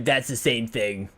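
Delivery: slow, sneering internet troll. Retold or imitated. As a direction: drawl it like a smug forum troll. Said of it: "It's my best troll voice".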